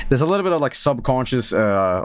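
normal talking voice

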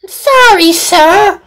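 high, small sorry voice; sheepish, regretful reply to the boss; sad apology. A narrator's reading. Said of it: "Sam said sadly".

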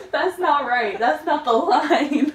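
loud laughing protest. Real, not acted. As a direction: call out the wrong line, slow on the last. Protests wrong line, laughing.

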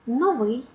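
новий said as a lesson example word; stress demo. Shown as a demonstration. Teacher giving examples of stressed adjectives, stress demo. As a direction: set out новий as a separate example. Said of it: "помилок ми допускаємо при наголошуванні".

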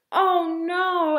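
high, loud cry of alarm; gasped dismay. Acted. Ava's mother finds tickets missing, gasping loudly. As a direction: exclaim as if gasping in shock. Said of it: "Ava's mother gasped".

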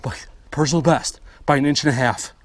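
loud and thrilled; excited. Real, not acted. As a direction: shout the joy of a record. Personal best fish caught.

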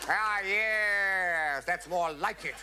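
high, pleased mock officer voice; lightly voiced approving officer. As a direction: sound satisfied like a commander. Officer approves the new lyric.

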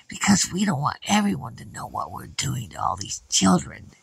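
secretive whispered warning. Acted. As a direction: hush it conspiratorially. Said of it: "She said".

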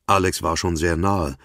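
ordinary delivery

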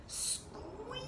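long, high rising squeeze; high, soft, held vowel; drawn-out squeeze. Shown as a demonstration. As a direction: stretch the vowel upward as you squeeze. Acting out a tight squeeze.

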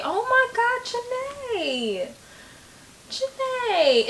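emotional whimper. Real, not acted. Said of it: "moved by the song".

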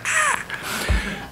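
stifled high cry of alarm; panicked yelp. Retold or imitated. Storyteller acts out deadline panic for the audience, mock high yelp. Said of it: "It was like".

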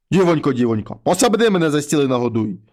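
low, heavy voice of a wolf head at the door; low monster head voice. Acted. Wolf head knocks and calls the girl, low and heavy. Mare head asks for food.

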